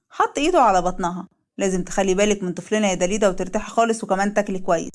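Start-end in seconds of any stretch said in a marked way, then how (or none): 1.6-4.9 lightly lowered, gentle husband voice; a loving husband, voiced a bit lower; husband Leil. Leil speaks to his wife.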